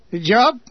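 "job" pushed up into a question; incredulous weight on "job"; stress on job. A narrator's reading. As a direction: lean hard on "job". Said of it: "He stressed the word".

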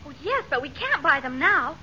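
hushed, secretive aside; soft conspiratorial mumble; mumbling. Acted. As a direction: drop your volume so he can't overhear. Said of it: "What are you two mumbling about?".

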